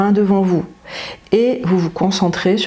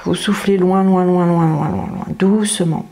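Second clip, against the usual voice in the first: slow breath-out guidance. Shown as a demonstration. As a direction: guide a long slow exhale, word by word. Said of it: "le plus lentement possible".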